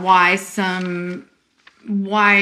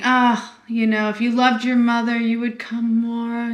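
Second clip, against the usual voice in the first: guilt tripper; 3 semitones higher than usual. Retold or imitated. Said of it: "anyone's a guilt tripper".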